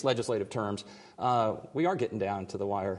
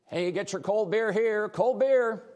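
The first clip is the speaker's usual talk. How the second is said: loud, high, drawn-out ballpark vendor call; stadium vendor hawking; 10 semitones higher, 5 dB louder, slower than usual. Pretend. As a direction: hawk it like a stadium beer vendor. Promo hawking cold beer.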